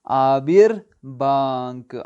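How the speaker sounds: آبر بانک drawn out slowly, each syllable clear; teacher modelling آبر بانک slowly for students; slow word demo. Shown as a demonstration. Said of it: "عین الف بے رے".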